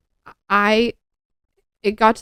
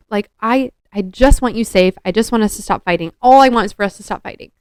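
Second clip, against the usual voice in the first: put-on fast, louder pleading with a drunk boyfriend; replaying a desperate plea, rushed and loud; retold pleading; 5 dB louder than usual. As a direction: beg him to stop, urgent and louder. Retold pleading during boyfriend fight.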